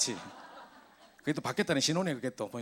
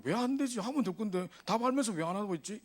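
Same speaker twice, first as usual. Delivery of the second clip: baffled; 7 semitones higher than usual. Retold or imitated. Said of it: "이랬단 말이죠".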